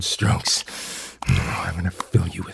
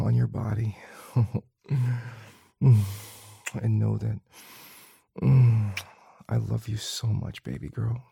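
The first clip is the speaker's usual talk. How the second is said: soft tender murmur; sweet nothings; 4 dB quieter than usual. Acted. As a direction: whisper tender reassurances.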